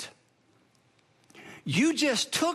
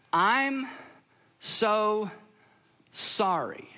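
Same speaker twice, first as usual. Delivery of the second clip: sincere apology; much slower than usual. Shown as a demonstration. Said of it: "It sounds like this".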